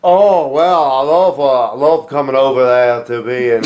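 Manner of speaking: terrible attempt at a British accent; badly faked British, sliding toward the American South; hammy, botched British wrestler voice; British Bulldog. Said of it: "one of the worst British accents".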